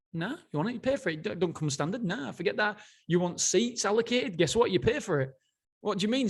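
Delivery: a half-playful take on a no-nonsense tycoon shrugging off complaints; hint of a blunt Irish CEO, dismissive; mocking the airline boss. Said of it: "That's what he said in his book".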